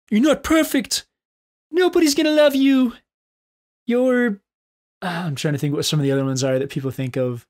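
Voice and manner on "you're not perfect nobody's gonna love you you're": high, loud mocking leprechaun voice; squeaky nagging inner critic. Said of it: "maybe we should use the leprechaun voice".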